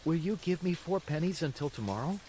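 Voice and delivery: lightly voiced pleading puppet; a hint of shameless begging; shameless asking. A narrator's reading. Pinocchio begs the boy for pennies, shameless. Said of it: "said to the boy shamelessly".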